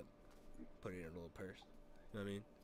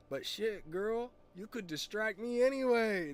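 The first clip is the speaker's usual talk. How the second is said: high, loud, drawn-out come-on; smooth flirt; 11 semitones higher, 9 dB louder, slower than usual. Retold or imitated. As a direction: imitate a smooth-talking buddy laying it on. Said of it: "Chavez is kinda smooth with it".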